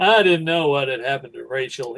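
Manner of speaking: bored, laid-back narration. Comparing two film voiceovers, imitating Harrison Ford's bored voiceover. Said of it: "he sounds really kinda like".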